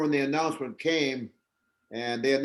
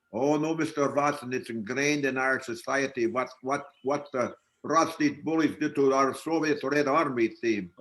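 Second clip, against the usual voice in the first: lightly put-on Russian accent. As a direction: imitate a young Russian answering back. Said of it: "that's not a bad Russian accent".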